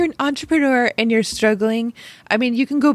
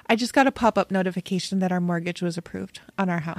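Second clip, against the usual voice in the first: choked up; 4 semitones lower, 6 dB quieter, faster than usual. Real, not acted. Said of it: "all choked up right now".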